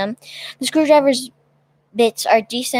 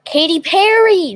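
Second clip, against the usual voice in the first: excited; 6 semitones higher, 6 dB louder than usual. Real, not acted. Joke guess shouted out.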